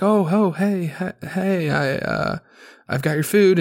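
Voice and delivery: startled, tripping over the words; shaking nervous. Retold or imitated. Startled delivery lady stammering to the guest, flustered. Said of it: "kinda shaking nervous".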